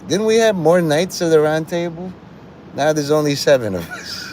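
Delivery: a hint of a baffled king counting his knights; King Arthur. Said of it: "King Arthur is like".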